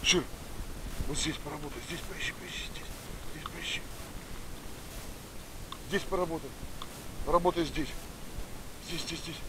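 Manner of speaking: talking to a dog. Real, not acted. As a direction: quietly urge the dog to search. Directing dog to search scent.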